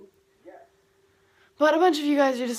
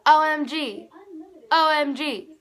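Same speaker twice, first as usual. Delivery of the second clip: louder, thrilled repeat; excited; 6 semitones higher, 10 dB louder than usual. Retold or imitated. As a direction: gush it like a giddy friend. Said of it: "And he was like".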